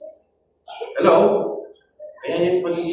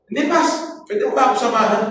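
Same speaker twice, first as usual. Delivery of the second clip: imitating caller; 6 semitones higher, faster than usual. Caller insisting, retold.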